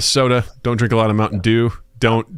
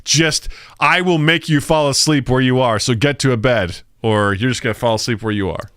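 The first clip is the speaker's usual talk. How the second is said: pleading body voice; slower than usual. Retold or imitated. Voicing his dad's body.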